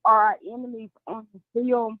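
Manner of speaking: muffled, far from the phone. Real, not acted. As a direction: talk away from the mouthpiece. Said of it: "you sound kinda muffled".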